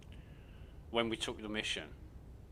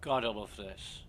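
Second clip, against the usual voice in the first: dry sarcastic delight. Acted. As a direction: say it like you hate it. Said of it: "he says sarcastically".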